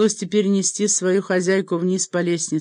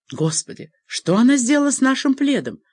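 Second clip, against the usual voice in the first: higher-pitched roared question, held back; mild roar; 8 semitones higher, 4 dB louder than usual. A narrator's reading. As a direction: read it as an understated bellow of disbelief. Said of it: "проревел свой вопрос Колум".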